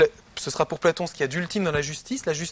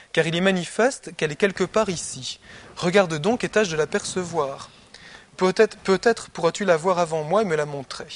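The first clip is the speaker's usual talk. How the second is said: reading Plato aloud. Acted. Teacher reading the Republic to his students, in a measured reading voice. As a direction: read the text to the class with care.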